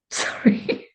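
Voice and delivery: breathy giggling sorry through real laughter; laughing apology. Real, not acted. Laughing as she apologises for the spilled cards. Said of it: "I'm laughing because".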